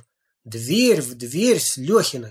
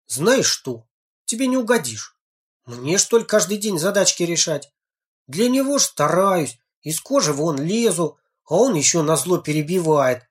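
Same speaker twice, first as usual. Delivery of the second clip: rising, heated complaint; getting heated; 4 semitones higher than usual. Acted. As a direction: flare up in indignation. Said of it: "распалился Женька".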